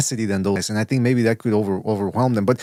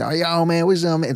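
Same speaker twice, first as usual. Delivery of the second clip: exaggerated street greeting; 4 semitones higher than usual. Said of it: "he was really exaggerated".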